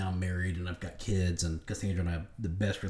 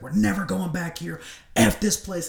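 retold rant, much higher and louder; angry outburst; 11 semitones higher, 4 dB louder than usual. Ranting to his wife about the restaurant, angry and loud. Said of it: "And I'm so mad".

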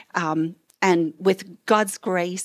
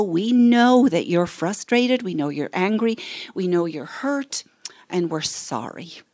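validating demo. Shown as a demonstration. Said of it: "Let them know".

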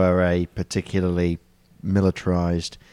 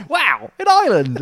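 high, loud, drawn-out wonder; mock amazement; 14 semitones higher, 5 dB louder than usual. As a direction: marvel out loud at your own silly misunderstanding. Acts out own amazed mistaken reaction.

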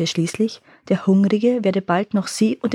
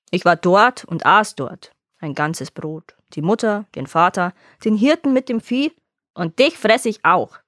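gloating monster. Acted. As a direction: savor each thing you've eaten. Monster boasts to shepherd.

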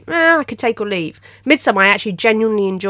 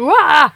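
imitated startled yelp; 6 semitones higher, 3 dB louder than usual. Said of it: "the guy at the front went".

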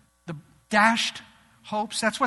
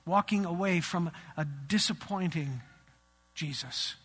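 fading low; 4 semitones lower, 7 dB quieter than usual. Acted. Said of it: "repeated, fading".

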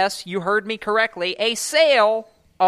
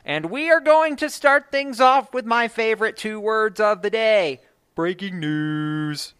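breaking news voice; 4 semitones higher than usual. Pretend. Radio host heralding the day's top story, breaking news voice. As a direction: hype announcer build-up, stretching the last word long. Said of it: "I got to do my voice".

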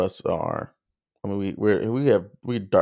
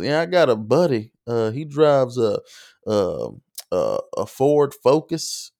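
Southern twang; 3 semitones higher than usual. Retold or imitated. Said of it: "being more comical".

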